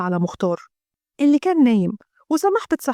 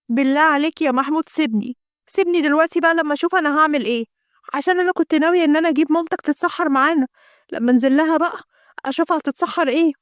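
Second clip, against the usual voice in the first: nagging wife; 2 semitones higher than usual. Acted. Abeer scolds Mahmoud for forgetting the beans, exasperated.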